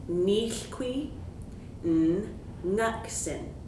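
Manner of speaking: "Nichqui" rising, pause, then "ngaksen", N kept apart from NG; very slowly. Shown as a demonstration. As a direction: drag it out to separate N from NG. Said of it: "Let's say it again, very slowly".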